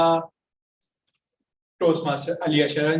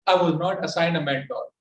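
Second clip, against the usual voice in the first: flat, even tone, no melody; monotone. Retold or imitated. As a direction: recite it flatly, without feeling. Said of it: "were actually monotone".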